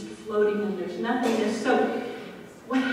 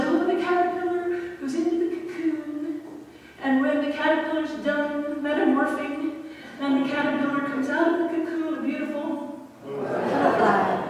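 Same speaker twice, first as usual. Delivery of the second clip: higher, quick sing-song quoting of what everybody says; mock common wisdom; 4 semitones higher than usual. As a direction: toss it off like a cliché everyone repeats. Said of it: "everybody says".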